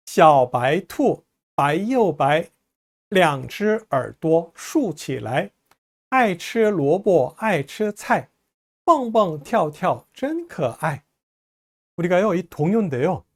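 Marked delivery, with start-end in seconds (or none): 0.1-11.0 slow, measured model reading in Mandarin; rhyme read-aloud. Shown as a demonstration. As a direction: read the children's rhyme slowly, phrase by phrase. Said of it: "쭉 한번 전체적으로 다시 한번 읽어볼까요". (동요 가사를 천천히 또박또박 낭독)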